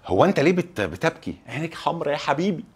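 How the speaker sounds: soft, concerned question; hushed, mildly sympathetic asking; tender concern. Acted. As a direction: ask gently, as if to someone in tears. Gently asks why someone is crying.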